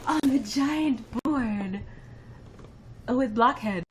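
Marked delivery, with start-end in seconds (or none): 0.1-1.8 slow sing-song. Real, not acted. Writing viewer's name on board.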